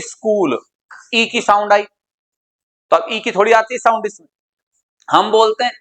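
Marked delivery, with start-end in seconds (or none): 0.0-0.6 "स्कूल" as is-KOOL; short "i" before the s of "स्कूल"; added initial i. Shown as a demonstration. Teacher shows the common habit, "स्कूल" said as is-KOOL. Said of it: "लिखते तो ऐसे हैं, लेकिन बोलते हैं".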